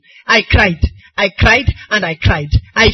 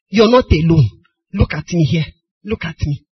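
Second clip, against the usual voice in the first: retold reassurance; 4 semitones lower than usual. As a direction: lower voice, softening toward the end. Consoling a troubled girl, retold.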